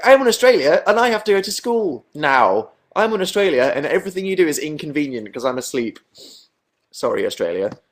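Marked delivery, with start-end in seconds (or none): 0.1-6.0 high, loud mock complaint; hammed-up loud protest, starting high and easing down; imitating loud Australians. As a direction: mimic a noisy, aggrieved chat crowd. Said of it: "Australian people are loud".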